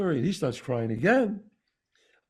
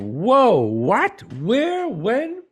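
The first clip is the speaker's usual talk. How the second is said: sudden loud, high burst of alarm; shocked shouting of questions; startled disbelief; 8 semitones higher, 8 dB louder, much slower than usual. Retold or imitated. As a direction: blurt it out, caught completely off guard. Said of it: "And I'm like".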